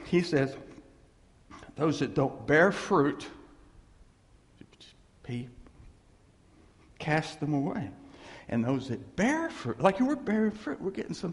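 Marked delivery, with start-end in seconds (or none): 1.8-9.8 scripture reading. Acted. Pastor quoting Jesus to the congregation, solemn reading. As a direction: read the verse with weight.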